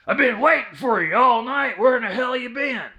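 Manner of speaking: put-on loud, high grumbling old man; cranky old man. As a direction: scold the trick-or-treaters like a cranky old man. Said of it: "and I quote".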